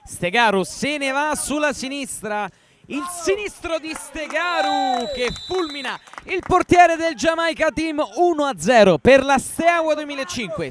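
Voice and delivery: rising, shouted goal call; excited goal commentary. Real, not acted. Live goal call, first goal.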